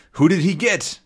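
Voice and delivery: voiced villain. Villain and Nestor exchange.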